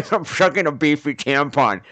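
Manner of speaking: amused disgust breaking into laughter; laughing. Retold or imitated. Teller recalls the tampon in his mouth, laughing. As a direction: say it through a laugh.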